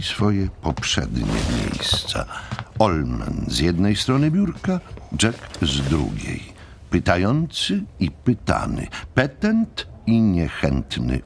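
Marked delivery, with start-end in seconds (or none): none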